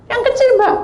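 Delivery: high, squealed urgent request; seruan panik tiruan. Retold or imitated. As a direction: cry it out high to the helper. Repeats urgent small-towel request. (berseru panik bernada tinggi)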